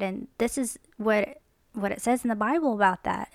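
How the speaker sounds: calm, friendly heads-up, lightly voiced; mild caring tone, close to plain; gentle correction. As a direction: talk to him kindly like a friend. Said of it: "But like".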